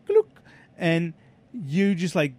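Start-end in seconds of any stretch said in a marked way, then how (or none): 0.1-0.3 short gulped click noise; imitated switch click. Shown as a demonstration. Man showing what his friend's mental switch sounds like, imitated click. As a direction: mimic a switch flipping in someone's head. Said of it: "it actually sounds like that".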